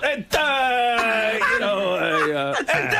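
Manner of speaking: high, long-stretched mocking fillers; drawn-out word endings. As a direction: push off and glide on every uh. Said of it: "pushing off into the middle of the pool".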